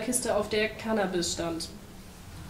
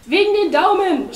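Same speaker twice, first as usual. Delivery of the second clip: high, loud wail; anguished high yell; shouting; 11 semitones higher, 11 dB louder than usual. A narrator's reading. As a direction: cry out the bitter answer. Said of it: "schrie der Pinguin".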